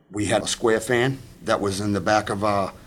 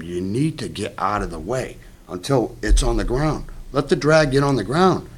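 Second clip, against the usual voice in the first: retold yell. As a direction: call him off the winch, rising to a shout. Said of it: "And I yelled at him".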